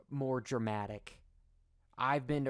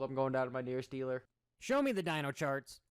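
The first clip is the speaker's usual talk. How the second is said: sarcastic; faster than usual. Acted. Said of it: "that I'm being sarcastic".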